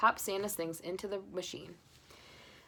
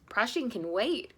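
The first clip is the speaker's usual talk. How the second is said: slow, louder eager call; cried; 3 semitones higher, 4 dB louder, slower than usual. Acted. Husband dashing to catch the intruder, eager. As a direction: rush off with purpose. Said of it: "cried Mister Forgetful".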